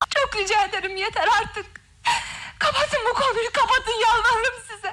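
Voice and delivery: very high voice, speaking through tears. In a tense exchange about their marriage, answering the other person, crying. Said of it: "Ağlıyor musun?".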